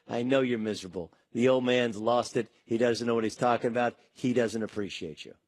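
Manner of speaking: mock grumbler. Host voicing a player's complainer, low and grumbling. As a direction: play the guy badmouthing the coach, dropping low. The complaining guy undermining coach.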